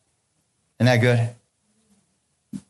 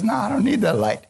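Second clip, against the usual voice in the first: mock stubborn husband; 9 semitones higher than usual. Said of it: "He goes".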